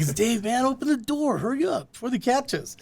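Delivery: high, hushed stoner plea through the door; Cheech and Chong stoner. Retold or imitated. Retelling knocking on the ladies' dorm door, mock stoner voice. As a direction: play the pleading stoner from the old bit, pitched high. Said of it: "Like the old Cheech and Chong bit".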